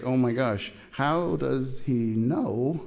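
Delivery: stunned, drawn-out wondering; slow right down in amazed disbelief; understated freak-out, each word stretched; mock freaking out. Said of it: "she's freaking out because".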